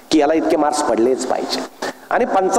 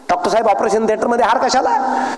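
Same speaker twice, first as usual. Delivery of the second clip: mildly alarmed question, pitched higher; imitating a frightened patient; 4 semitones higher than usual. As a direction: play a nervous patient questioning the surgeon. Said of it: "घाबरलं".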